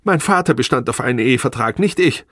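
high, agitated self-defence; upset protest. A narrator's reading. Wife defending herself about the marriage contract, high and upset. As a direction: argue back in a high, rising voice.

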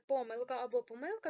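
"помилка" first with stress on "по", then on "ми"; both stresses. Shown as a demonstration. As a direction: contrast the two stresses of "помилка". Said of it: "тут подвійний наголос". ("помилка" з двома наголосами, на "по" і на "ми")

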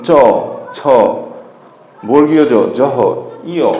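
চ ছ জ জহ ইয় each said alone; palatal letters demo. Shown as a demonstration. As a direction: separate beats for চ, ছ, জ, জহ, ইয়. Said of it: "যেমন".

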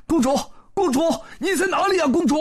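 high, loud calling through the palace. A narrator's reading. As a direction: call for the princess. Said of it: "就大叫".

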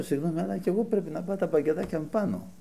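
retold soft, calm apology; softened, placating reply; very gentle. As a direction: answer anger gently, keeping the volume down. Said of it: "Και του μίλησα πολύ απαλά".

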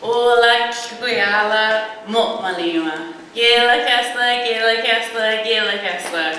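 slow, careful Kwakwala greeting in a non-native accent; Kwakwala greeting, learner's accent. Real, not acted. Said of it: "pardon my terrible accent".

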